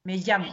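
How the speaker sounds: teacher models "Me llamo" with LL like LI; LL prononcé LI. Shown as a demonstration. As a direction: say "Me llamo" as if LL were written LI. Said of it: "comme si c'était écrit L I". (« Me llamo » avec le LL comme écrit LI)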